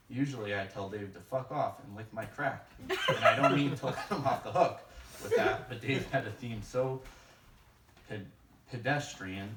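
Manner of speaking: laughing at his own joke, words spilling out; can barely hold the laugh while delivering the insult; laughing through it. Real, not acted. Roast joke cracking himself up.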